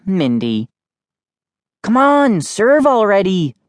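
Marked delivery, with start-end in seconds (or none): 1.8-3.5 impatient, higher-pitched call. A narrator's reading. Kid hurrying sister to serve, calling out impatiently. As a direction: call across the table to hurry someone up. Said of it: "I called out".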